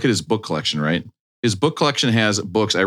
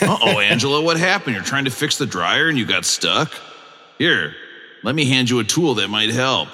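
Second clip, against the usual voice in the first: Tony Danza impression; 3 semitones higher than usual. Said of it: "your Tony Danza impression".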